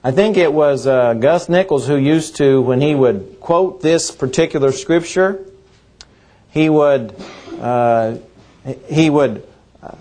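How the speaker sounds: ordinary talk, nothing marked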